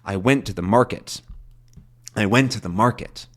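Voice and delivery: "went" peaking in "I went to the market", repeated; rolling stress demo. Shown as a demonstration. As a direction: roll through it with a peak on "went".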